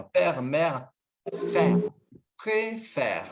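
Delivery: "Père, mère, faire, préfère" with open è sounds, word by word. Shown as a demonstration. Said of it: "então som aberto".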